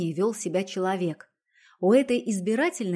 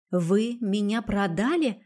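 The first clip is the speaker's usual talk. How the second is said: slow, sinking with dread; a touch of fear, drawn out; fearful question; slower than usual. Acted. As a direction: ask it slowly, heart stopping. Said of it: "с замирающим от страха сердцем спросила я".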